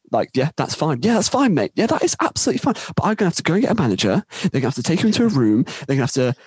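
mock exasperation, pitch jumping up; frustrated staffer. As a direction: imitate a fed-up official rattling off warnings. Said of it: "she's getting really frustrated".

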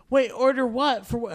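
confused mom. Retold or imitated. Confused mom asking her son what he's ordering. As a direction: ask it baffled, like a lost mom.

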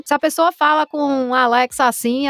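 regional Brazilian accent, lightly done; demonstrated accent. Shown as a demonstration. Voice artist showing accents Alexa must understand, light regional accent. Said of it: "tem que entender esses sotaques".

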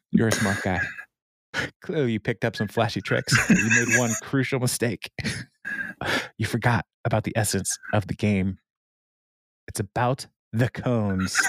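a touch of a grand villain speech; dramatic monologue. Shown as a demonstration. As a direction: deliver it like an audition piece. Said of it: "this will be my monologue in the audition".

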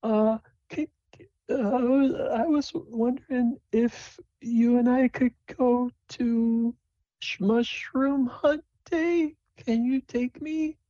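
put-on high timid girlish voice; Sable's voice. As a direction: stammer it out like a nervous kid. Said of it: "And she says".

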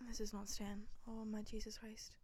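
whispered, panicky mum on the phone; panicked mum. Retold or imitated. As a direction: play the frightened mum, hushed and breathless. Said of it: "she's like".

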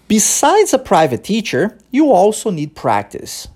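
slow English model line, pause after teacher; natural rhythm demo. Shown as a demonstration. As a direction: say it with a pause right after "teacher", tune falling at the end. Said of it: "vou repetir pra você a frase como ela é dita no dia a dia". (frase modelo lenta, com pausa depois de "teacher")

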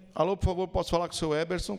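lightly imitated drawling carioca accent; Rio accent. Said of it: "Com aquele sotaque carioca, bem arrastado".

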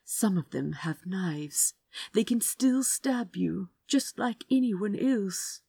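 hushed, anxious warning; worried whisper. Acted. Azra warning Crow about knives, worried whisper. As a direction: whisper it so only he hears.

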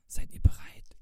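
hushed stage whisper. A narrator's reading. Owl to friends before looking under the bed, whispering. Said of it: "flüsterte Eule".

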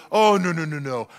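mock-gracious host refusal, slowing on I insist; overly nice no-no-no; fake polite refusal. Host turning down guests' help, mock-polite. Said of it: "and you go".

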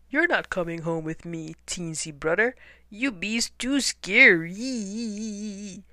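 slow hunter call, stretched at the end. Acted. Hunter fleeing, calling back slowly. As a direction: call back, dragging out too scary. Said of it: "The hunter called".

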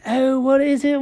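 curious asking. Acted. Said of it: "Jenkins goes".

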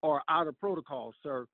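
firm, measured telling-off; retold stern warning to an officer. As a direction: lay down the rules sternly. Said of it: "with a stern voice".

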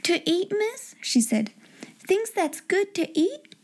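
high, hopeful questions at modest volume; excited breaking in. A narrator's reading. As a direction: ask with rising, eager disbelief. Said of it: "She broke in with such excitement".

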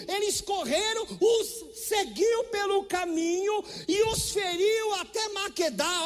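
high, loud, slow preaching cry; preaching at full force. Acted. Preacher shouting Joshua's victory to the church, high and loud. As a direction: soar up and hammer out each victory.

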